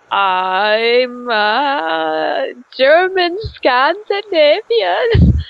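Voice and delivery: made-up German Scandinavian accent climbing in pitch. Shown as a demonstration. Doing an impression on request, hammed-up German Scandinavian accent. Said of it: "do more impressions".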